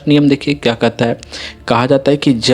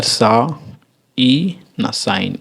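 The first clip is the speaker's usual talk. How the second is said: slow blending; much slower than usual. Shown as a demonstration. Teacher blending sounds for students, very slowly. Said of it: "तो ये हमारा हो जाएगा".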